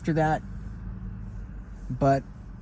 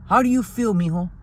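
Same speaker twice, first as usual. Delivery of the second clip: higher, gentle grandpa asking; grandfather voice; 5 semitones higher, 3 dB louder than usual. Retold or imitated. Grandfather asking his grandson how he feels, higher caring voice.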